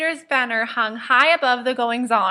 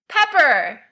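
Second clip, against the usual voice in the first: yelled; 3 semitones higher, 4 dB louder than usual. Acted. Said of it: "Sirius is yelling now".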